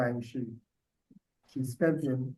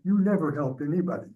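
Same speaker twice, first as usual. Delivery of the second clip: laughing; 4 dB louder, faster than usual. Retold or imitated. Quoting Guitar with a laugh.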